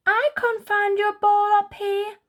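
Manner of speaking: high, chattering squirrel; quick little squirrel reply. Acted. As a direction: Squirrel answers Puppy from the tree, high and chattery. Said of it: "he chatters".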